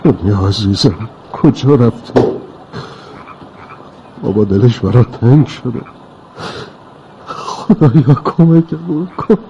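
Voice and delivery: slow, grieving father close to crying; tearful. Acted. Father alone calling to his missing little girl, tearful. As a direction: plead through held-back tears.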